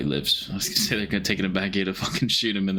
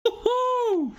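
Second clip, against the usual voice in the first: high, gleeful whoop; excited cheer. Real, not acted. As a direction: cheer like your team just scored. Cheering at the show.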